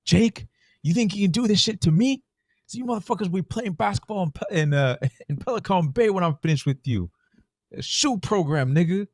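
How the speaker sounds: a movie cop's threats, recited with relish; reciting a movie villain. Retold or imitated. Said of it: "So it's like".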